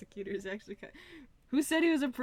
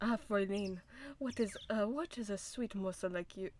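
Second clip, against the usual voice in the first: lightly attempted German accent, halting; uncertain German accent; 2 semitones lower, 4 dB quieter than usual. Prosecutor flirting with a sweet morsel, shaky-grasp German accent. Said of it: "I don't know what accent I'm doing".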